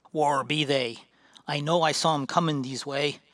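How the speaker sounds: hint of a dwarf bellowing where are the goblins; gruff dwarf, urgent. Dwarf warrior bursts into camp.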